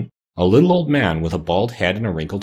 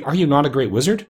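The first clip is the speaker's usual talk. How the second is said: higher-pitched disbelieving question; astonished cry; 6 semitones higher than usual. A narrator's reading. Dorothy questions the fake wizard, crying out. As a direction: ask it in mild astonishment, pitched up. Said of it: "cried Dorothy".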